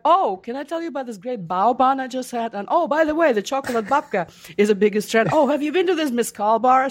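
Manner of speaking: breezy chatter, tossing out one trendy food after another; mock trendy French foodie. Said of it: "And they're like".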